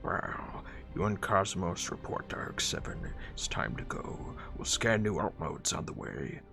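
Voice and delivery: lightly voiced robot giving orders; a hint of a commander's voice; commanding officer. Officer sending Prowl and Cosmos off, lightly voiced command.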